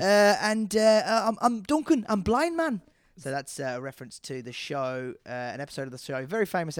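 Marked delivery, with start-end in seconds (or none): 0.0-2.8 put-on high, loud hammy Sunderland accent. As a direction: ham up a north-east Sunderland accent. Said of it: "Can I have a Sunderland accent".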